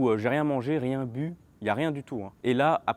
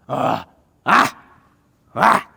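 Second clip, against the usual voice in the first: sharp loud yelps; imitated screams; 7 semitones higher, 14 dB louder, much slower than usual. Imitating the cellmate screaming at things nobody sees. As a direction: cry out at something invisible. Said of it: "Comme ça".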